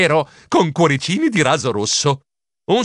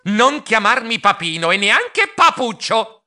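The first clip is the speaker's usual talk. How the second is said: exasperated protest; 7 semitones higher, slower than usual. A narrator's reading. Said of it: "protestai esasperato".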